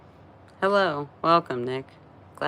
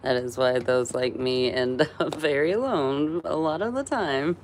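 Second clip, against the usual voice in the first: put-on Borat accent. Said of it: "started talking like Borat".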